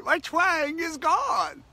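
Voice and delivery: high, slow, exultant announcement; joyful proclamation. Real, not acted. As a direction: sing it out like good news. Happy report of lost twang.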